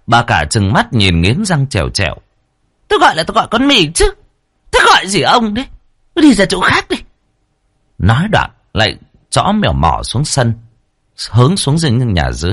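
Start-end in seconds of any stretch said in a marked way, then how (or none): 2.9-7.0 very high, fast scold brushing him off; shrill snapping wife. Acted. First wife snapping at her husband to get lost, very high. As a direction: shoo the husband away shrilly.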